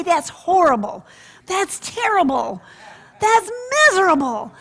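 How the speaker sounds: high, loud sympathetic coo; mock sympathy. Boy showing roommate how to console, high cooing sympathy. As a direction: sing out the pity phrases. Modelling grandmother's lines.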